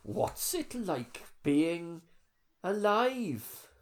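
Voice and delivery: slow, soft Welsh voice; Welsh accent. Acted. Welsh client questioning the spirits, slow Welsh accent. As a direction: ask it slowly in a Welsh accent. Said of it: "I find that Dan doing Welsh".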